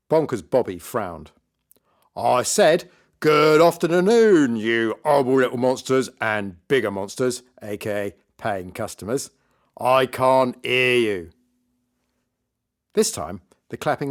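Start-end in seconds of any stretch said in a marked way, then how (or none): 2.2-11.3 loud, drawn-out showman's greeting; hammed-up stage magician working the crowd; bullish party magician. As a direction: project it big, stretching the key words.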